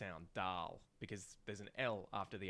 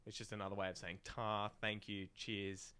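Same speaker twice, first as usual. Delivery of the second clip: ordinary talk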